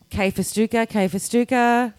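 lightly imitated airport page; airport paging call. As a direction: repeat it like a paging announcement. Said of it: "I hear the call going".

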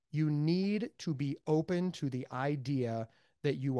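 slow, deliberate weight on NEED; stress on NEED. Real, not acted. Speaker urging listeners to be open, emphatic stress on "need". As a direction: spell it out slowly, leaning on "need". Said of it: "I cannot stress the word need".

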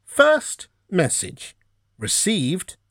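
slow, high automated readout; phone menu voice. Retold or imitated. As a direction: drag out each word like a voicemail robot. Automated voicemail reading date.

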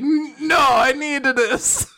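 cling stubbornly to the fake Italian; hammed-up Italian plea; mock Italian accent. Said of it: "See if you still have the accent".

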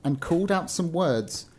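measured storybook reading; story narration. A narrator's reading. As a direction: read it out like an old-fashioned tale. Reads a story aloud.

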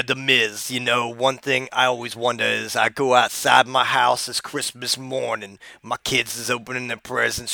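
a hint of Booker T telling a wild story; Booker T impression. Comedian impersonating Booker T telling a tall tale, lightly voiced. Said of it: "I'm gonna do my Booker T impression".

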